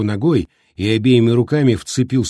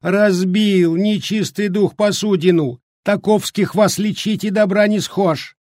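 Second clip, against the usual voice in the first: put-on scolding old woman; 8 semitones higher than usual.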